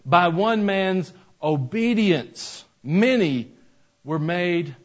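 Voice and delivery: slow, weighty Bible quote, last words stretched out; scripture reading. Acted. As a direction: let each word of the verse land. Reads scripture aloud.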